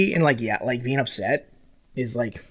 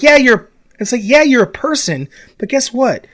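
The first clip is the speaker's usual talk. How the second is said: mock retort; 4 semitones higher than usual. Podcaster mocking a whiny player, sarcastic raised retort. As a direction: snap back at him, mocking his whining.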